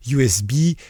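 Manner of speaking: product name in an English accent, drawn out slowly; French speaker trying an English accent. Shown as a demonstration. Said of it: "Avec mon accent anglais".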